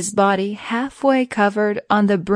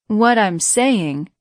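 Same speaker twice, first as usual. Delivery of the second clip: higher pitch; 3 semitones higher, 3 dB louder, slower than usual. Acted. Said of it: "with a higher pitch voice".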